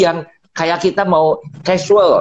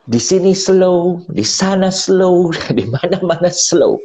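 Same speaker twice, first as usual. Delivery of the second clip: drawn-out repetition; 2 semitones higher than usual. Acted. Repeating slow about travel.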